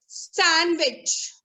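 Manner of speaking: "sandwich" modelled as san-wich; silent D. Shown as a demonstration. Teacher leading the class in repeating, sandwich with silent D. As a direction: drop the D from sandwich, falling close. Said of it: "The D is".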